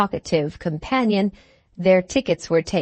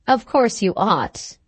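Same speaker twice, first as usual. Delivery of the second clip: ordinary delivery, nothing marked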